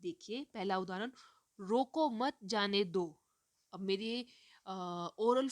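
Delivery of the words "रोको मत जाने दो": "रोको मत", a break, then "जाने दो"; pause after मत. Shown as a demonstration. Teacher reading the first example to students, pause after मत. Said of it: "रोको मत के बाद मैं जो विराम ले रही हूँ".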